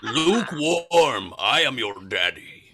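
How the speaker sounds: slow laughing Darth Vader parody; into a fan. Pretend. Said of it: "talk into the fan".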